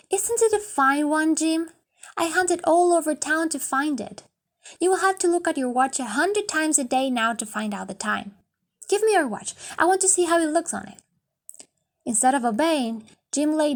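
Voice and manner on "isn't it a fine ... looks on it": put-on higher, eager young wife, hurrying at the end; anxious and eager. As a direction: hold out the gift hoping he loves it.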